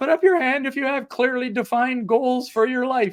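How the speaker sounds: put-on squeaky little young voice. Retelling opening a prepared talk to an audience, in a squeaky young twenty-one-year-old voice. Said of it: "in my squeaky little twenty-one year old voice".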